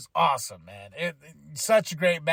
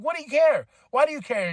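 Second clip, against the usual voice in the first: mock defiant; 7 semitones higher, 3 dB louder, faster than usual. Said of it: "He's like".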